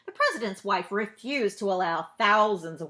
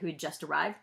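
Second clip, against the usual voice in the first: plain reading voice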